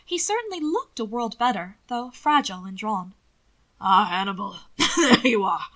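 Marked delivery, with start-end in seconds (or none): 3.8-5.7 calling out. A narrator's reading. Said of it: "Grandfather called".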